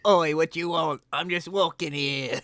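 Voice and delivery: high, loud cheeky rat voice; sassy rat talking back. Acted. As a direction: squeak it out like an offended rat, with a laugh.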